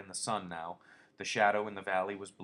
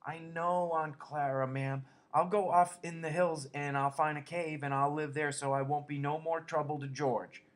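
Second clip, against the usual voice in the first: grieving; 6 semitones higher, 5 dB louder than usual. A narrator's reading. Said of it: "Lenny moaned with grief".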